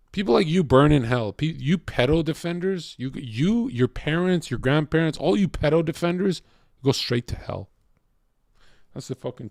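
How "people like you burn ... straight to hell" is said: louder, furious condemnation; angry yell. Real, not acted. Streamer condemning chat viewers, with a loud angry yell. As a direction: shout it at them like a verdict.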